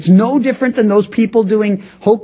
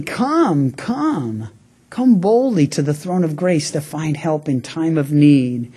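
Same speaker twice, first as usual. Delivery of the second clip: softer, fading gentle call; tender invitation; 4 semitones lower, 3 dB quieter than usual. Retold or imitated. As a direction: welcome a hurting child to come close. Loving Father voiced inviting.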